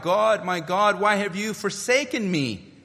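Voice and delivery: anguished cry. Acted. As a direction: cry it out from the cross. Christ's cry from the cross.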